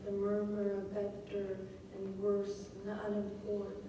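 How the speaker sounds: evenly murmured line; nothing sticks out, keep it rolling; murmuring demo. Shown as a demonstration. Teacher demonstrating unstressed syllables, murmured evenly. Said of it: "For every stressed syllable".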